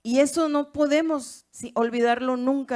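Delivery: never forget this, hermanos, shouted high; preaching shout. Real, not acted. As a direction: drive it home to the church. Preacher exhorting the congregation.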